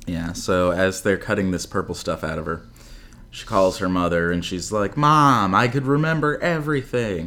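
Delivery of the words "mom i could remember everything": lightly acted, raised-pitch daughter; mock heartfelt phone confession; imitated daughter phoning mom. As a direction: call out to mom, voice lifted. Acting Lucy phoning her mother.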